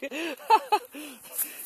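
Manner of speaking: high squealing laugh. Real, not acted. Laughing at friend.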